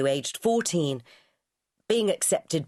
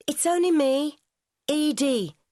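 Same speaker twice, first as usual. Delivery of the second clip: calling out; 10 semitones higher than usual. A narrator's reading. Calling through the open door.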